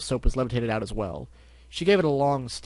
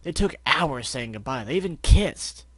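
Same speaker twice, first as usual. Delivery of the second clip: complaining pony voice; 4 dB louder, slower than usual. Acted. Pegasus complaining.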